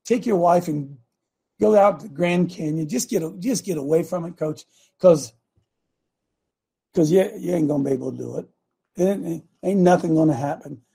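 lightly voiced tempter, coaxing and trailing off; a hint of a sly whisper in his ear; understated tempting voice talking him out of it; voice of the enemy. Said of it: "That's the enemy speaking".

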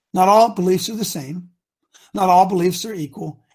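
each word slow and weighted; slow emphatic. Shown as a demonstration. Coach repeating it slowly to listeners, emphatic. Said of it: "let me say this again real slow".

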